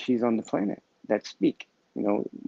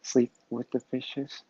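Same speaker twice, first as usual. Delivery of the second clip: slow, deliberate, softer repeat of the pun; 3 dB quieter, slower than usual. Shown as a demonstration. Explaining his mobster pun to viewers, slow and deliberate. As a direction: spell the pun out slowly so it lands. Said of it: "Get it?".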